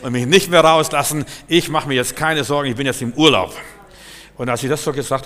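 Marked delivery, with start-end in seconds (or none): 0.0-3.5 louder, higher carefree declaration, laughing; retold resolve. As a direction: proclaim freedom from worry. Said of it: "Und habe ich gesagt".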